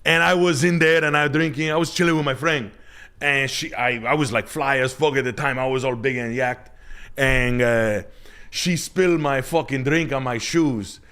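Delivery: high put-on voice of a club guy; imitating Dominican buddy. Retelling his buddy's club story in a high put-on voice. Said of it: "He's like".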